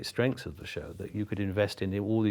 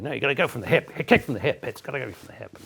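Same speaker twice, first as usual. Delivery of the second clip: Shirley coaching dancers; 4 semitones higher, faster than usual. Retold or imitated.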